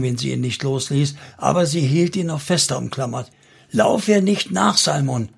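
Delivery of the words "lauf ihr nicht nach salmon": high imploring voice, falling on the name; pleading. A narrator's reading. Noah begs Salmon not to run after her, pleading. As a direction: implore him, pitch lifted. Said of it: "flehte sie ihn an".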